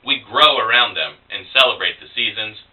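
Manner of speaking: measured persona-poem recital; poetry reading. Acted. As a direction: recite it in steady phrases with short pauses. Reads persona poem to audience.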